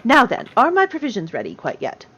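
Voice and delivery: lightly voiced old gnome lady; expectant gnome grandmother. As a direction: prompt the shopkeeper like a proper granny. Gnome customer asks for provisions.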